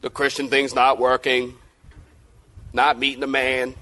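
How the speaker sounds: lightly voiced discouraged churchgoer; disillusioned believer. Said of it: "Maybe you've been thinking about".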